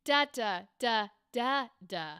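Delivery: "Da, da, da, da, da" in separate even beats; rhythm demo. Shown as a demonstration. Coach echoing the student's other take, rhythm demo on "Da". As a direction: sound out the line's rhythm on "Da, da, da, da, da". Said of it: "This one is".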